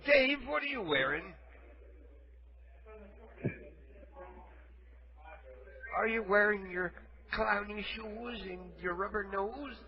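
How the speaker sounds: soft, lightly voiced old man; a hint of a feeble old caller; frail shaky old whisper. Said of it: "Well, I'm old".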